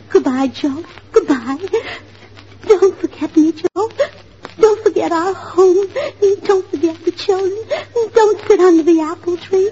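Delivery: hammed-up heartbroken farewell with halting breaks; tearful heartbreak. Friend demonstrates Tootsie's dramatic scene for Mister Hamill, mock heartbroken. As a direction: play a melodramatic, weepy goodbye. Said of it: "nobody can cry like Tootsie".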